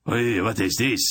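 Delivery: can't believe what he sees; incredulous exclamation. A narrator's reading. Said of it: "Drosta exclaimed incredulously".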